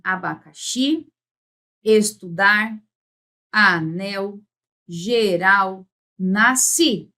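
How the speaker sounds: "abacaxi, estudar, anel, geral, nasci" each stressed on the last syllable; final-syllable stress. Shown as a demonstration. Teacher pronouncing oxytones to students, stressing each final syllable. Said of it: "quando você pronuncia".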